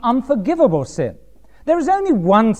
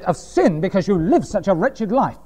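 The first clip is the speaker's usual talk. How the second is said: half-mocking the condemning preacher; mock fire-and-brimstone preacher. Imitating other preachers scolding sinners, with a mild mock rant. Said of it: "They would have said".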